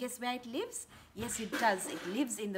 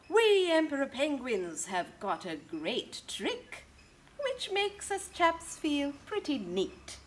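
a touch of a proud penguin chap, slow; slow, proud penguin rhyme; lightly voiced penguin dad; 3 dB louder, slower than usual. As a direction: show off your neat trick to the children. Penguin dad speaks in book.

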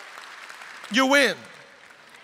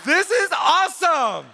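slow, higher, gushing delight; excited wife at mile seven; 4 semitones higher, slower than usual. Retold or imitated. Preacher imitating his wife's early marathon joy, slow and high. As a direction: gush like it's the best day ever. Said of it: "she's like".

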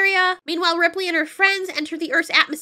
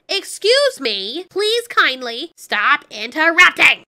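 voicing the baby alien; 6 dB louder, slower than usual. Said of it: "and it's like".

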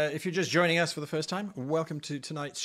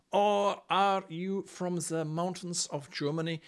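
mock German accent. Host teasing his German guest, mock German accent. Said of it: "now that I have insulted Till".

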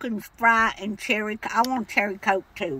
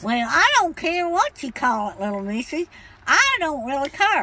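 put-on cranky old lady voice; 4 semitones higher than usual. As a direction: play a stubborn old woman customer. Caller holds an old lady voice.

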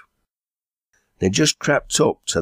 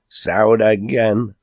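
slow, higher exclamation; drawn-out, raised echo of the news; eager echo; 4 semitones higher, 4 dB louder, much slower than usual. Acted. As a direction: repeat it slowly with a lift in pitch. Enoch eagerly repeats the whispered news.

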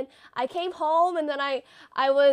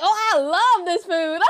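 laughing fake delight; 2 semitones higher, 6 dB louder than usual. Pretending to enjoy the food.

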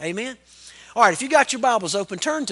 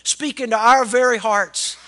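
public prayer. Real, not acted. Pastor praying to the Father for his congregation, earnest prayer. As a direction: pray aloud in measured phrases, easing down to the amen.

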